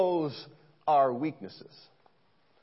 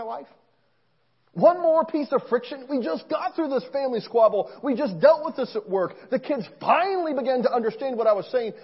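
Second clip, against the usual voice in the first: exasperated complaint; 5 semitones higher than usual. Pretend.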